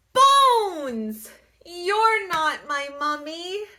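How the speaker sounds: put-on high, loud small-child voice; a startled little mummy; little baby mummy. Baby mummy tells Bones he's not mama, high.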